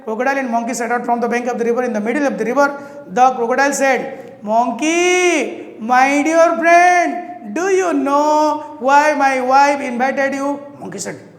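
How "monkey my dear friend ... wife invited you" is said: sly tease. Acted. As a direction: savour the reveal slowly. Crocodile slyly reveals plan.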